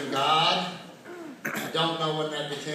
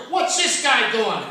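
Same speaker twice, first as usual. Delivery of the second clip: mock indignant question; 8 semitones higher, 7 dB louder, slower than usual. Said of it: "I go".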